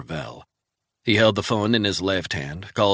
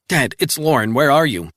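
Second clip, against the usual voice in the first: put-on higher, urgent young voice; anxious daughter; 7 semitones higher, 7 dB louder than usual. Daughter calling Resnick from the hospital, anxious. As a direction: daughter phoning her father in a panic.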